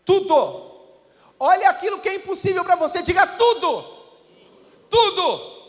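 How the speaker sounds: loud, declaring sermon cry; the congregation made to shout it; preaching at full force. Acted. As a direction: proclaim it to the church.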